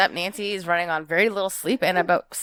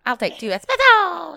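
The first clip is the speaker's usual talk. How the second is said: perky raised order; higher, louder ordering voice; 6 semitones higher, 4 dB louder than usual. Retold or imitated. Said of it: "They tell me".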